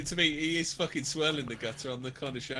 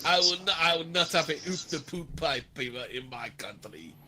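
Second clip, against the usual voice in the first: mock action hero. Riffing on the policeman bit, mock tough. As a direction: growl it out like a film hero.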